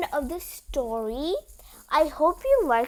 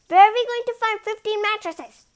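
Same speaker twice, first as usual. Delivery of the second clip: high, louder fretting question; worried exclamation; 8 semitones higher, 7 dB louder than usual. Acted. A character fretting over fifteen mattresses, higher and louder. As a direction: fret about the impossible task.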